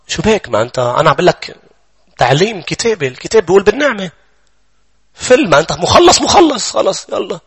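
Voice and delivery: a touch of a scoffing devil, lightly voiced; mocking devil. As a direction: brush off his fears like a smug tempter. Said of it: "بصير يقول لك الشيطان".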